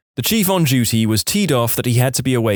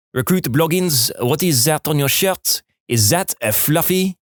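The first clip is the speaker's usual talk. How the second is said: put-on light French-Canadian accent on a stern sergeant; a hint of a harsh French-Canadian drill sergeant; 3 semitones higher than usual. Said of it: "Imagine a female French-Canadian sergeant with this accent".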